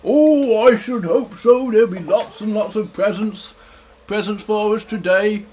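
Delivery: lightly voiced storybook bear; hopeful bear, mildly acted; Big Bear. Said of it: "And Big Bear says".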